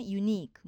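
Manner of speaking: ユニーク with the long ニー stressed; stress on final syllable. Shown as a demonstration. Teacher adding a second example, ユニーク stressed on ニー. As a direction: put the accent on ニー in ユニーク. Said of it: "イークのEにアクセントがありますね".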